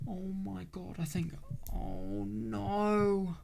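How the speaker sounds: high, small voice of dread; high-pitched, worried realisation; dawning dread. Real, not acted. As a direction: realise the worst, pitch lifted. Dreading a death in game.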